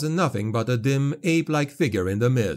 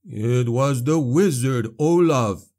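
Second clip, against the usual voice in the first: hoarse and a little louder; 3 dB louder, slower than usual. Acted. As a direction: rasp it out from a smoke-filled throat. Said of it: "Hugo said hoarsely".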